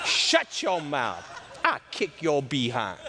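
slow, laughing mock scolding; laughing mock threat. Preacher to the people, laughing mock threat. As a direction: threaten in jest through laughter. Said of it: "That's what I would have said".

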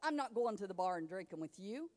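firm refusal demo. Shown as a demonstration. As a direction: model how to refuse.

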